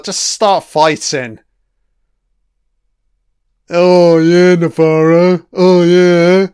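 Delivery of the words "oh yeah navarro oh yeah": louder sarcastic cheer; fake-hyped cheer for the fight; mock cheering. Real, not acted. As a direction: egg the fight on with a mock whoop.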